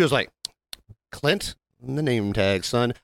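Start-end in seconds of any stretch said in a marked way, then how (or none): 1.1-2.9 drawn out, talking down to him; a server slowly telling off a rude customer, condescending; slow condescending put-down. Retold or imitated. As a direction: spell it out slowly like to a child.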